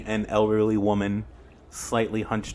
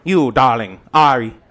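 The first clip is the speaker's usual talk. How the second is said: campy drag queen; 4 semitones higher, 10 dB louder than usual. Acted. GM voices Granny Who.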